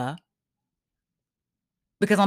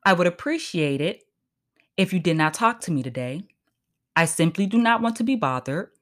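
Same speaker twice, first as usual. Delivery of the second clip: polite formal register; 6 semitones lower than usual. Shown as a demonstration. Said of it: "I know how to let somebody know".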